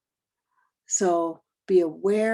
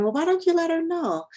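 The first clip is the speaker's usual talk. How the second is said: quoted friend; 9 semitones higher, 4 dB louder, faster than usual. Retold or imitated. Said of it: "the person you're talking to saying".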